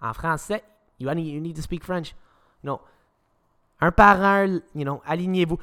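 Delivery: a hint of a bossy teacher talking down; lightly mock the teacher lining up kids; French teacher ordering kids into line, mildly condescending. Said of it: "the French teachers will almost always speak down to you".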